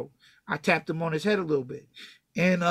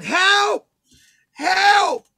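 high, loud imitated scream; screaming for help; 12 semitones higher, 8 dB louder than usual. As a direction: mimic her panicked cry for help, voice jumping up. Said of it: "she starts screaming".

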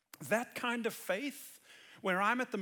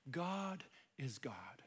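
whispered slowly, almost breathless with awe; hushed whisper; 6 semitones lower, 8 dB quieter, slower than usual. Real, not acted. Preacher telling listeners God is God, whispered. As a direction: let it drop to a slow whisper. Quiet emphatic aside to hearers.

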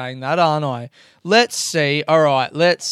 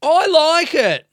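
playful repeat; 13 semitones higher, 6 dB louder, slower than usual. Real, not acted. Repeats phrase for effect.

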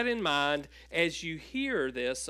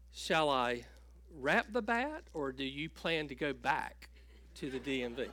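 nice sweet voice; 2 semitones lower, 5 dB quieter than usual. Retold or imitated. Clerk teasing the angry customer in a soft sweet voice. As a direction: sweetly needle him with a smile. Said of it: "nice, sweet voice".

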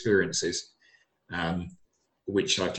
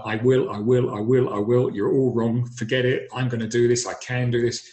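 louder, determined I will repeated; defiant insistence; 5 dB louder than usual. Retold or imitated. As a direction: push back hard at everyone who doubts you. Defying doctors who doubted him.

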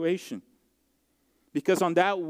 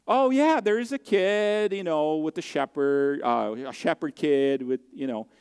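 dismissive family. Retold or imitated. Family dismissing shepherd kid.

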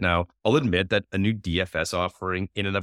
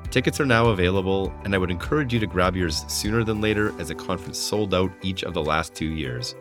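ad read. Acted. Host reads sponsor ad.

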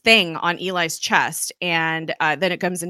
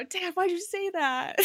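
put-on higher, slow whiny teen voice; embarrassed kid; 13 semitones higher, 6 dB quieter than usual. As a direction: whine at dad like a mortified kid. Embarrassed kid whining at dad.

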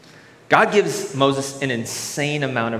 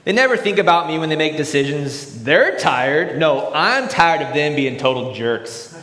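mock bitter complaint, a bit louder; bitter cynic; 3 semitones higher, 4 dB louder than usual. Preacher voicing a cynical friend, bitter and louder. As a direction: grumble resentfully about the friend.

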